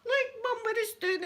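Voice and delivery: high laughing shriek; laughing scream. Retold or imitated. Retelling the seagull shaking the corpse, shrieking with laughter. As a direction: scream it through the giggles. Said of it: "And I was screaming".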